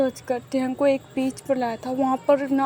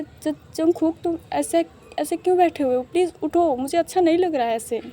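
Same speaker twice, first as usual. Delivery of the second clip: higher, stammering shock; shocked, flustered; 3 semitones higher than usual. Acted. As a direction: fluster at the sudden proposal. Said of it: "बहुत ज़्यादा shock हो जाता है". (हैरानी से हकलाते हुए)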